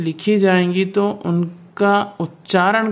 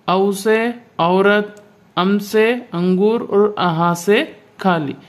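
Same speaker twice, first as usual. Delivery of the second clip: put-on children's class recital; slower than usual. Shown as a demonstration. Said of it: "इस तरह से छोटे बच्चों को पढ़ाया जाता है".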